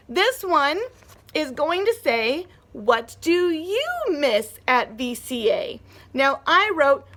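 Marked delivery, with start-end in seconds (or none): 2.7-5.8 slow reading of "What do you miss at V C A?" with stress on you; reading a question. Shown as a demonstration. Teacher reading the writing prompt to the class. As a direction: read it as a real question. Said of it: "with a question mark because I'm asking".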